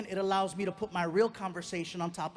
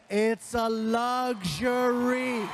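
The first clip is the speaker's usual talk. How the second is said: emphatic lecture; 5 dB louder, much slower than usual. Retold or imitated. Dad lecturing son, final word.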